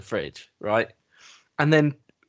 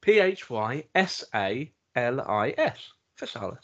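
slow spelling bee. Pretend. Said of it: "spelling bee".

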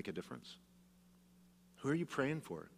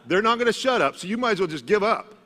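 high, loud mock exasperation; exasperated laugh; 10 semitones higher, 8 dB louder than usual. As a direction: throw up your hands, grinning. Grandmas who won't stop praying.

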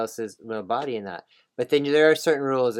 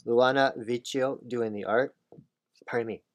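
choking. Real, not acted. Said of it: "Oh, choking".

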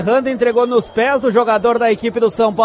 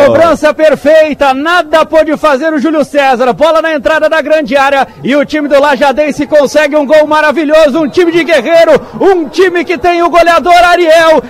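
comentário empolgado; 3 semitones higher, 3 dB louder than usual. Real, not acted. Commentator excited by goal.

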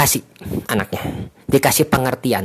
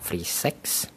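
hushed whisper; 6 semitones lower, 14 dB quieter than usual. Real, not acted. To viewers, whispering the taboo topic of entertainment. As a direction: whisper the taboo words, no voice at all.

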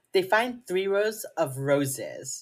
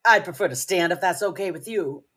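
imitated Midwestern twang on a polite refusal; playful take on her Midwestern accent; 4 dB louder than usual. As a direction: lightly put on a Pennsylvania-Midwest accent. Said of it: "has an accent".

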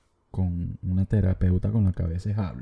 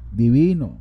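louder, relished divino; emphatic approval; 6 dB louder than usual. Real, not acted. Vlogger savouring a fan's answer, loud approval. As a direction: savour the word like a treat.

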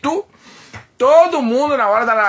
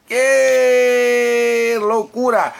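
slow shouted "que loucura"; drawn-out shout; 3 semitones higher, much slower than usual. Real, not acted. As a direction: stretch it out in a big shout. Shouted exclamation.

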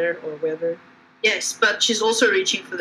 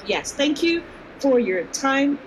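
higher, slow, mustered dignity; stately and measured, pitched up; dignified; 4 semitones higher, slower than usual. Acted. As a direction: thank them slowly with strained dignity. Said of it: "with all the dignity I can sum up".

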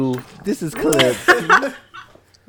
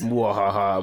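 mad scientist laugh; 6 semitones lower, slower than usual. Retold or imitated.

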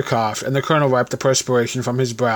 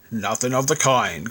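gruff growl; 2 semitones lower, 4 dB quieter than usual. Acted. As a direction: growl it like a grumpy old soldier. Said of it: "growled the veteran".

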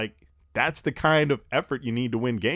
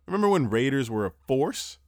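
ordinary talk

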